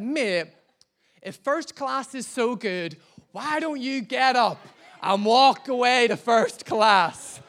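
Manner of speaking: building to a loud, high, slowing challenge; confrontational retort. Retold or imitated. Husband to meddling passenger about first class, confrontational shout. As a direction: throw it back, rising into a shout.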